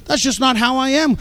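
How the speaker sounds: mildly imitating a shy believer making excuses; mock quiet churchgoer. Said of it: "Well, it says rejoice".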